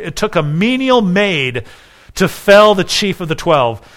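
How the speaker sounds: ringing, emphatic oratory on each opening phrase; dramatic quote reading. Acted. Preacher quoting a commentator to the congregation, declaimed. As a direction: declaim it with rising rhetorical force.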